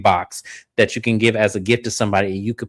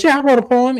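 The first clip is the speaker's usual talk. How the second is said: imitating Glenn; 13 semitones higher, 4 dB louder than usual. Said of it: "He goes".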